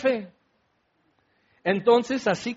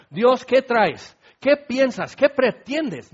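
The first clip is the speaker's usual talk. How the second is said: questioning God indignantly; 4 semitones higher, slower than usual. Retold or imitated. Voicing a doubter questioning God.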